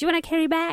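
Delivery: put-on really fast, rushed teenage voice. Explaining how teenagers ask about bags nowadays, the speaker imitates them, really fast. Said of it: "really fast".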